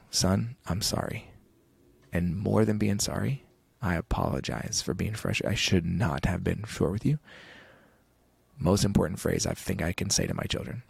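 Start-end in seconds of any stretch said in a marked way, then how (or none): 0.1-7.2 slow, soft, sincere apology; tender apology. Retold or imitated. Father softly apologizing to his young son, sincere. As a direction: apologise gently to your child, slowly.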